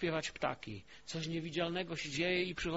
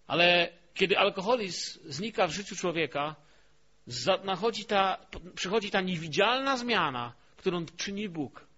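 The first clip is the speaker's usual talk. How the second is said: loud, emphatic pulpit delivery; forceful preaching; 2 semitones higher, 9 dB louder than usual. Real, not acted. Preacher describes alcoholism vanishing from a life, forceful preaching. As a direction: drive the point home to the congregation, loudly.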